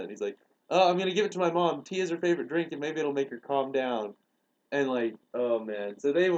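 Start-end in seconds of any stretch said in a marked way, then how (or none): 0.7-4.1 lightly acted, higher-pitched voice; a hint of someone else's voice; retold earnest explanation. Kid earnestly explaining plan, retold.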